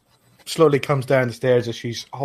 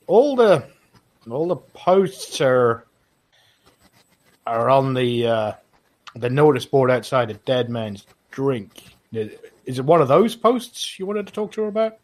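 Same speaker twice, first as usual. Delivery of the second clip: GM plays a guard, slightly raised pitch; 2 semitones higher, 3 dB louder than usual. Acted. GM voices guard asking for Nenya.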